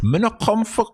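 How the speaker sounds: quoting Jamaican Patois. Retold or imitated. Host quoting the guest's favorite saying to him, imitated Patois. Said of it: "your favorite quote is".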